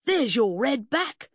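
high, slow triumphant squeal; gleeful high-pitched gloating; exultant. A narrator's reading. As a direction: crow in triumph, drawing it out. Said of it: "the man exulted".

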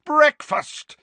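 high, loud and happy; joyful breakfast shout; loud, joyful call. Acted. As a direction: shout it out with glee. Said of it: "said Sirius loudly and joyfully".

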